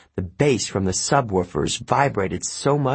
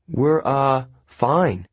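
stammering; 4 semitones higher, much slower than usual. Acted. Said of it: "Annabeth stammered".

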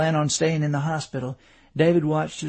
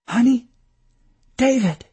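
higher, louder voice of a worried wife; anxious calling out; 9 semitones higher, 6 dB louder than usual. A narrator's reading. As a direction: call out to rouse an injured husband. Wife calling to injured husband.

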